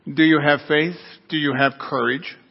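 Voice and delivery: measured, calm voice from above. Acted. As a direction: ask evenly, without any urgency. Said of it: "The voice above calmly said".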